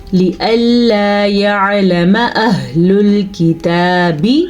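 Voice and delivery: يَعْلَمَ with a distinct throaty ع; measured tajweed recitation, emphatic ع in يَعْلَمَ; clear ain. Shown as a demonstration. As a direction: recite slowly, bringing out ع in يَعْلَمَ. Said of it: "آئین کو enhance کرنا ہے".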